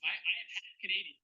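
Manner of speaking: lightly put-on Canadian accent; amateur attempt at a Canadian accent. Shown as a demonstration. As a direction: try your best folksy Canadian accent. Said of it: "I'm gonna try my best Canadian accent".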